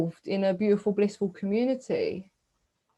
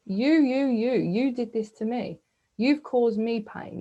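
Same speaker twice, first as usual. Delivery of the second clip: mock blaming; 3 semitones higher, slower than usual. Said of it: "I chose to get angry".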